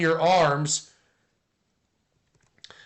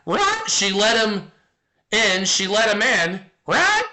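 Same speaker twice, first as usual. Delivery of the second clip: parrot voice; 2 semitones higher than usual. Acted. Streamer voicing a tattling parrot in a dirty joke, squawky and rising. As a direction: play the parrot, ending each bit with a shrill rising right.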